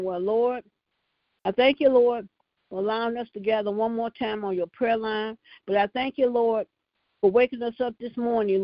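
prayer cadence, calling on Lord; fervent prayer. Acted. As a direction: pray it out with fervor. Leads the prayer line.

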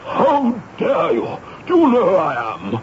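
indignant outrage. Acted. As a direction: bristle with indignation. Reverend outraged at arrest.

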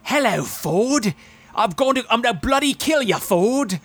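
high, drawn-out mock assassin voice; Robert Englund. Assassin sent to kill Ford Fairlane, imitated in a high voice. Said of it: "and he's like".

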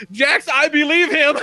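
loud, slow, high call; a friend calling out in the car, loud and slow; mock shout. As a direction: yell it out drawn out in disbelief. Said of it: "Mary just goes".

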